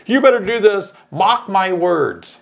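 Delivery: mock my words with a Southern drawl on "mock"; mom's Southern accent, mark said as "mock". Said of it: "Like my mom always said".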